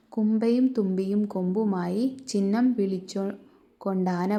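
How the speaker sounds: put-on rhythmic, sing-song reading of a children's verse; poem recitation. Teacher reciting a children's poem to the class, rhythmic lilt. Reads textbook poem aloud.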